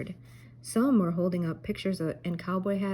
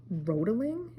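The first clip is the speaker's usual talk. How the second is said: Scooby question; 3 semitones higher than usual. A narrator's reading. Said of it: "asked Scooby".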